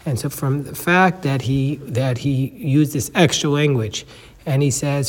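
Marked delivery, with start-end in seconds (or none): none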